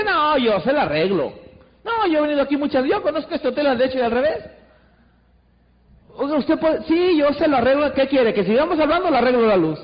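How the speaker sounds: quick, sure-footed, cocky workman; a self-assured handyman taking the job; confident electrician. Acted. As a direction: rush in knowing you'll fix it. Confident third electrician takes charge.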